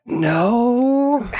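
lightly voiced reply. Player answers Core in character.

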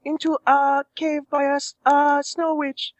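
lightly voiced sultry woman; Roz voice. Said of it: "to the Roz voice".

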